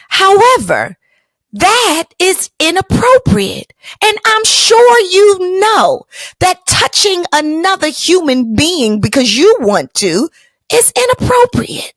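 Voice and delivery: high, slow, prim correction; slow, prim lecture to the saleswoman; schoolmarm lecture. Retold or imitated. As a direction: talk down like a strict teacher.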